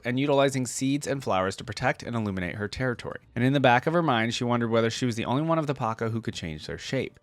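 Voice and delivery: lore read in a lightly dramatic storyteller voice; story narration. A narrator's reading. Reading Nidalee's lore to viewers, gentle story narration. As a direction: read it like the opening of a legend, unhurried. Reads champion biography aloud.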